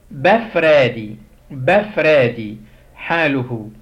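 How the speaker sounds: بفرادي drawn out slowly, each syllable clear; slow Coptic drill. Shown as a demonstration. Teacher modelling Coptic verb for students, slow and clear. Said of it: "ناخد".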